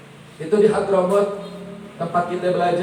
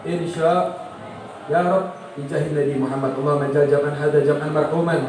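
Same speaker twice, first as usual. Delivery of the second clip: closing prayer. Acted. (doa penutup yang khusyuk dan pelan)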